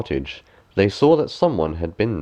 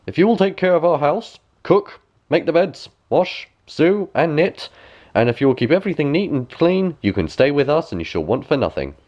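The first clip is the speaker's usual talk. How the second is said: dwarf; 6 semitones higher than usual. A narrator's reading. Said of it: "The dwarf said".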